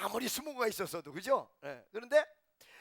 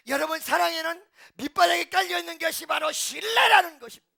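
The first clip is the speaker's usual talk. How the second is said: full-force preaching; 8 semitones higher, 10 dB louder than usual. Real, not acted.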